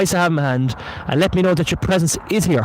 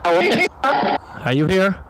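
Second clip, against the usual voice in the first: slow calling out; 2 semitones higher, much slower than usual. Real, not acted. Calling out to a spirit.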